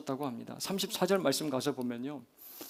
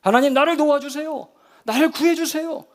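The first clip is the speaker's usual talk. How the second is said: loud, high-pitched plea for help; crying out; 10 semitones higher, 9 dB louder than usual. Shown as a demonstration. Believer in a storm praying for rescue, loud cry. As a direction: call to God at full voice. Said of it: "부르짖어야 돼요".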